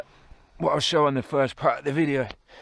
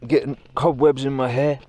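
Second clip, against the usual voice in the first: disgusted; 2 semitones higher, 7 dB louder than usual. Real, not acted. Cobwebs caught in his hair.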